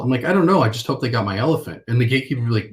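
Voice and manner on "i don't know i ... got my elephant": mock innocent. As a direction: play dumb about the elephant, a bright lifted start. Salesman playing innocent with gatekeeper.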